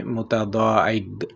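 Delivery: متضاحک said slowly, its final qaf softened toward a g; qaf with a g touch. Shown as a demonstration. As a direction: end متضاحک with a light g sound. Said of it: "گاف کا touch دیتے ہیں". (متضاحک، آخر میں قاف کو گاف کا touch)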